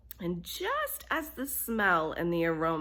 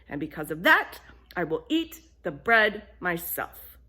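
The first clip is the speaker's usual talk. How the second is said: louder firm scolding; indignant lecture; 5 dB louder than usual. Acted. Hen scolds friends who did nothing, louder and firm. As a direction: list it like a stern reprimand.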